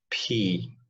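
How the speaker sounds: P released with a puff of air; aspirated P. Shown as a demonstration. Teacher naming the one aspirated example, P with aspiration. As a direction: let breath burst out after the P. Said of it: "the only word ... that is aspirated".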